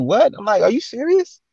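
high, incredulous comeback; retold incredulity. Man answering his date's accusation, mock incredulous. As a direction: re-enact being taken aback, pitch climbing. Retold reaction to her complaint.

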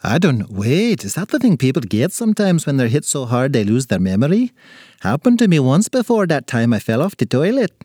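lightly put-on little man voice; befuddled leprechaun. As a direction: muse like a confused leprechaun.

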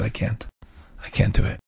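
softly imitating a woman overcome; retold tearful plea. Widow at the rabbi's grave, unable to speak, mildly tearful. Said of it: "She burst out crying".

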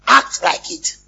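preacher calls the crowd to act; preacher's shout. Real, not acted. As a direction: act shouted high and loud. Preacher repeats line for emphasis.

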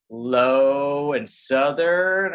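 slow, drawled Southern accent. Shown as a demonstration. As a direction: stretch it out Southern style. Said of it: "go, like".

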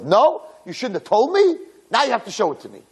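high, mock-indignant retort; playful protest. Bride argues with friends over the present, mock indignant. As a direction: act out a girlish complaint.

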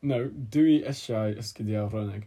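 slow, deliberate repeat in Welsh. Shown as a demonstration. Speaker repeats Welsh for the guessers, slow and deliberate. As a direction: spell out the phrase slowly.

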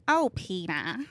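lightly voiced cartoon wife calling her husband; a hint of Lois from Family Guy; Lois impression. Shown as a demonstration. Podcast guest shows off her cartoon impression, Lois impression. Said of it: "Lois' impression from Family Guy".

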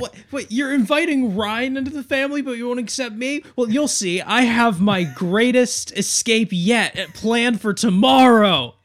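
high, loud put-on voice, slowing at the end; scheming brother voice, high and loud; whiny villain voice. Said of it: "Henry's like".

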